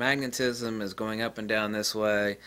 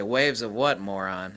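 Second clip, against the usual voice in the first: mock scornful retort; 2 semitones lower than usual. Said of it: "and I say".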